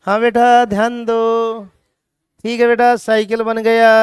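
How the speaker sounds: dull lazy teaching. Shown as a demonstration. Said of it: "और मैं यूं रहूं". (सुस्त, ढीली आवाज़ में धीरे-धीरे पढ़ाना)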